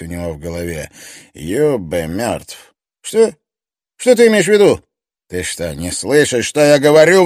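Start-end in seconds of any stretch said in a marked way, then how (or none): 1.3-2.7 slow, grave announcement; blunt and heavy. Acted. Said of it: "звучал грубо и решительно". 3.0-4.8 high, loud stunned question; shocked disbelief. Acted. Shocked reaction to death news. 5.3-7.2 loud, high furious outburst; explosive rage. Acted. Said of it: "взорвался Стоффе".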